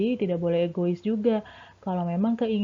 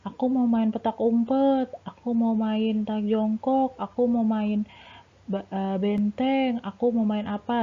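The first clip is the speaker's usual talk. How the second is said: imitating a demanding kid; 3 semitones higher than usual. Teacher imitating a pupil demanding a different game. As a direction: whine like a kid who wants his game. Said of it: "pasti ada salah satu yang pengennya mainannya berbeda".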